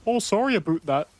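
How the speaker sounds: high-pitched caricature of a Canadian; mock Canadian. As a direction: apologise like a cartoon Canadian, way up high. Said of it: "that's what Canadians do. They go".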